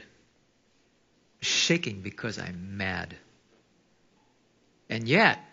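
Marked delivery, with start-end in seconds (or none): 0.0-3.2 slow emphasis. Real, not acted. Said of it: "I'm shaking not because I'm scared".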